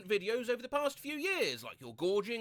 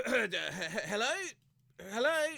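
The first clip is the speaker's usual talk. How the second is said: feigned wide-awake voice; slower than usual. Retold or imitated. Answering the alarm as a call, feigned wide-awake voice. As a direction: pretend you've been up for hours on the phone. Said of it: "in my most "I've been awake for hours" voice".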